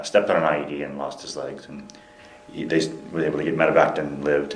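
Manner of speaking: slightly firmer volume, still conversational; speaking up. Real, not acted. Interviewee retelling the injury after a request, speaking up. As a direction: retell it audibly, a little projected. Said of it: "speak a little louder".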